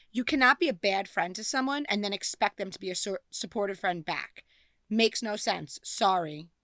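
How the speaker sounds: ordinary delivery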